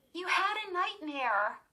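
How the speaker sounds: high insistent voice; insisting. A narrator's reading. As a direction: insist firmly. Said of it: "Lindy insisted".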